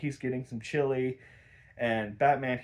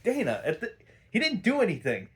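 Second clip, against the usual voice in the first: laughing disbelief; 8 semitones higher than usual. Real, not acted.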